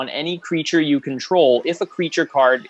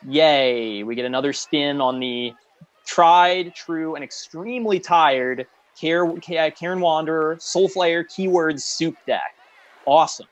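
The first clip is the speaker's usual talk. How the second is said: sarcastic. Shown as a demonstration. Host mocking yet another recycled deck to listeners, sarcastic. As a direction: fake a cheer for something tired. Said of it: "I'm being totally sarcastic".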